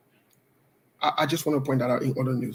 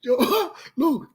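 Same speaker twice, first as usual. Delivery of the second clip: high-pitched, helpless laughter between phrases; words squeezed out through giggles; laughing; 8 semitones higher than usual. Real, not acted. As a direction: talk while cracking up for real. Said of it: "I hope that I laughed too much".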